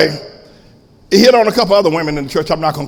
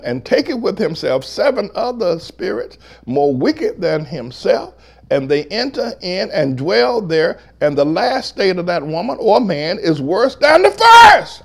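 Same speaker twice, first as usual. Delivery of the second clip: deliberate reading that swells into a shout; scripture preaching; 4 semitones higher than usual. Real, not acted. Pastor reading scripture to prove his point, scripture preaching. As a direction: declaim the verse, then cry out its ending.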